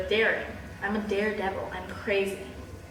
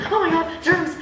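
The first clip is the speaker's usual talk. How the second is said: mock disgust; 7 semitones higher than usual. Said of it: "I'm like".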